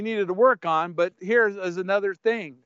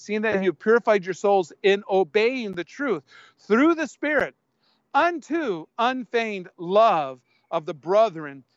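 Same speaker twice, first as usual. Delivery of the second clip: scripture reading. Acted. Reads scripture aloud.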